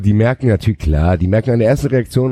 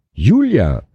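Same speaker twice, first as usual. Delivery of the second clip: a burst of joy, pitched up; beaming; 6 semitones higher than usual. A narrator's reading. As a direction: call the name out with beaming joy. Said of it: "strahlte er".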